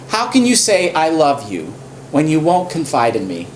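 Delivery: understated hurt complaint; lightly voiced Delilah. Delilah reproaches Samson, lightly mock hurt. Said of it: "She says to him".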